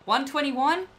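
high rising disbelief into a drawn-out gasp of words; stunned by a rare find; astonished, stretching out the "oh"; amazed. Real, not acted. Amazed by the rare trade offer.

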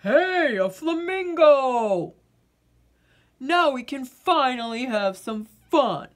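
loud delighted discovery; light up at the sight; excited kid. Acted. Girl spotting a flamingo, thrilled.

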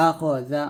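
"আখ জা" with a light dh in "জা"; thin ذ sound. Shown as a demonstration. Teacher drilling a word, thin dh in "জা". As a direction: say "জা" thinly, tongue-tip at the upper teeth. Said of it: "জালটা জিব্বাটা ... পাতলা উচ্চারণ করতে হবে".

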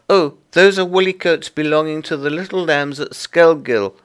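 high, loud little creature voice; busy Tiggywinkle. Acted. Tiggywinkle explains the washing to Lucy, high and busy. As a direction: chatter away as a small fussy laundress.

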